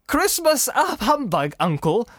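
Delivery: high-pitched, slow protest; protesting nephew. Acted. Nephew objecting to his uncle's humbug, high incredulous protest.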